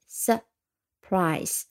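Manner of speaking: 慢读surprise，重音落在第二音节; slow syllable demo. Shown as a demonstration. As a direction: slowly sound out surprise, stress on prise. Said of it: "两个音节". (慢慢读出surprise，重音在第二音节)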